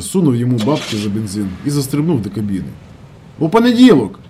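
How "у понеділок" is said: called out loud and high; parting shout. A narrator's reading. Ernst shouting goodbye from the UAZ, loud call. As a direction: shout it back from the cab. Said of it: "крикнув на прощання".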